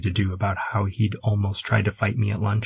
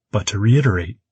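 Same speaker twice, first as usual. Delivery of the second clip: "But to reiterate" said louder and firmly; emphatic; 5 dB louder than usual. A narrator's reading. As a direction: lean on "reiterate". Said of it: "I emphasized".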